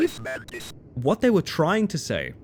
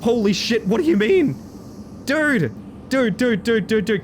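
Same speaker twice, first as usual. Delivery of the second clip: excited; 9 semitones higher than usual. Real, not acted. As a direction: gush in disbelief, over and over. Excited in game bathroom.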